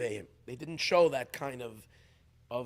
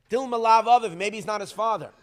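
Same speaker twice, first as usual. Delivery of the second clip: high, loud challenging retort; louder higher rebuke from the tzaddik; raised rebuke; 6 semitones higher, 9 dB louder than usual. Retold or imitated. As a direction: throw the question back at him sharply. Rebbe's sharp rebuke quoted.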